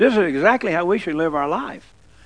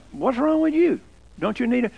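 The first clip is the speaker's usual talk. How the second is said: mock disbelief; 4 semitones higher than usual. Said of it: "people will look at you like".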